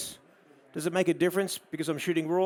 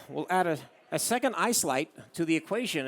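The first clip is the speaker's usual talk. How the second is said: lightly put-on American twang through the nose; playful imitation of a nasal American; nasally American accent. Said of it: "every American talks like that with a nasally accent".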